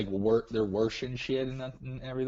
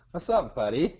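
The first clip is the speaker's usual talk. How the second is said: put-on Minnesota accent; 4 semitones higher, 4 dB louder than usual. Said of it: "Sometimes the accent just comes out".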